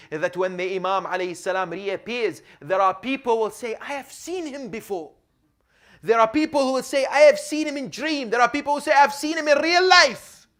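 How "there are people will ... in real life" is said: builds louder and higher line by line; rising preaching shout. Real, not acted. Preacher stirring the congregation, building to a shout. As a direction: climb to a ringing preaching shout.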